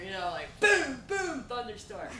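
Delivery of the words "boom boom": slow, booming thunderclaps; big imitated storm rumble; imitated thunder. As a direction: boom it out like thunder. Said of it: "they had a big thunderstorm".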